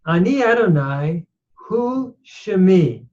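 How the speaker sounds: Ani Adonai hu Shemi read out in Hebrew. Shown as a demonstration. Teacher reading Hebrew text to students, careful.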